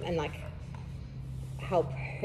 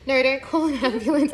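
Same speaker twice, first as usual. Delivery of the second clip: high and louder, laughing through it; laughing quote; 7 semitones higher, 6 dB louder than usual. Retold or imitated. Retelling her refusal to her sister, laughing high. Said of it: "Because I was like".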